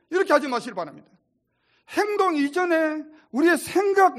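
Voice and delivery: preacher pressing his flock; fervent preaching. Acted. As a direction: drive the point home to the congregation. Preaching at full force.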